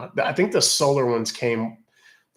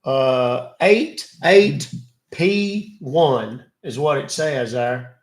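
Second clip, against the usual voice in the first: gullible caller voice; 5 dB louder, slower than usual. Acted. Acting victim to scammer.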